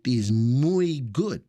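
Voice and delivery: slow, mock Spanish-flavored boast; playful Spanish accent. Host bragging about his French, slipping into Spanish accent. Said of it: "that's a little bit of a Spanish".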